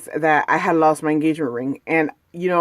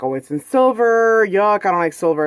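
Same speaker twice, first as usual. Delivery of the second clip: mock disdain; 3 semitones higher than usual. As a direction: sneer at the silver like the coworker did. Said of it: "my coworker's like".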